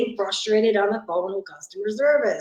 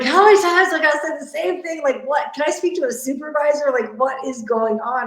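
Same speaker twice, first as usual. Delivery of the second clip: exasperated complaint; 5 semitones higher than usual. Retold or imitated. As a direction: retell the exasperation, pitched up and pushed. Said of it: "I was getting really frustrated".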